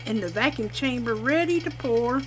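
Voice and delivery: talking over a machine humming; machine noise behind. Real, not acted. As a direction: machine running in the background. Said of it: "sorry about the machine back in the back".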